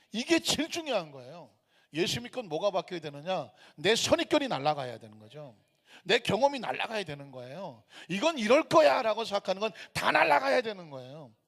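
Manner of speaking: forceful, emphatic pulpit exhortation; fervent preaching. Real, not acted. Preacher urging believers to drop their prejudices, fervent. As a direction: drive each point home to the congregation.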